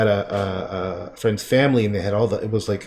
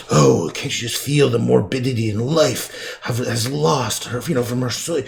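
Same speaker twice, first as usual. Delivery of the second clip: pretentious art critic. Retold or imitated. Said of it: "I can just see some edgy art critic go".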